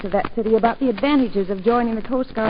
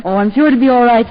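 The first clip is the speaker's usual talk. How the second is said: laughing; 7 dB louder than usual. Real, not acted. Laughing reply to ensign joke.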